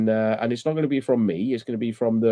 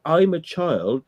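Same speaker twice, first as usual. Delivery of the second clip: slow mocking childish claim; 4 semitones higher, much slower than usual. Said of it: "flip it into".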